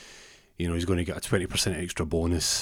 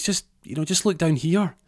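high-pitched small helper; little elf voice; 9 semitones higher, 3 dB louder than usual. Acted. Elf directs the man to look down, high little voice. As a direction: pipe up from down below. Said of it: "a little voice says".

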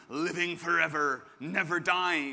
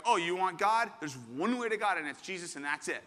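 mock dismissive; 2 semitones higher than usual. Mocks simplistic exclusive-claim reading.

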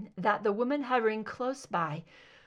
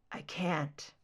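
rasped; 4 semitones lower, 5 dB quieter than usual. A narrator's reading. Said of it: "he rasped".

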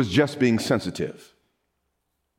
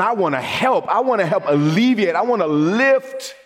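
higher, impassioned plea to help; pleading; 4 semitones higher than usual. Acted. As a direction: cry out that you want to help. Preacher voicing Jesus crying out.

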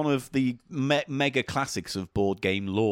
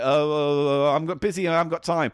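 Marvin Glass; 3 semitones higher, 4 dB louder than usual. Retold or imitated. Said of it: "he'd be like".

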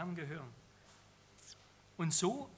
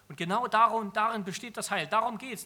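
louder, forceful emphasis on the point; loud emphatic sermon climax; emphatic preaching; 3 semitones higher, 9 dB louder than usual. Real, not acted. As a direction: hammer home the main point from the pulpit. Preacher drives home key point.

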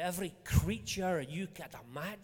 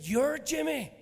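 high, loud disbelieving question; a doubtful little girl checking his name, loudly; incredulous child; 8 semitones higher, 9 dB louder than usual. Retold or imitated. Little girl to preacher in the car park, high incredulous.

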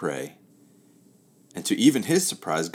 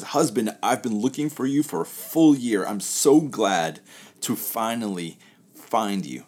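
excited; 4 semitones higher, 4 dB louder than usual. Acted. Pirate woman finds her husband.

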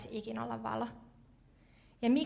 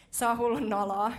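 mock embarrassed protest; 5 dB louder than usual. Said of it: "mä oon vaan silleen".

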